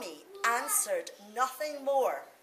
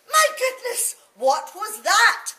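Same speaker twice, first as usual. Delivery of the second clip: much higher, loud startled cry; a mother jumping in fright; mother startled by the tummy noise; shocked cry; 10 semitones higher, 10 dB louder than usual. Acted. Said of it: "she cried".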